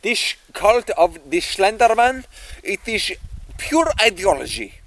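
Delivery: put-on light hammy Russian accent; a hint of a Russian professor. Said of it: "Are you Russian?".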